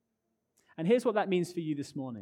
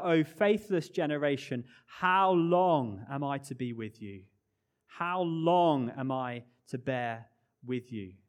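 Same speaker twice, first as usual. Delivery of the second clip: lament cry; 3 dB louder than usual. Acted. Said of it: "And he cries out".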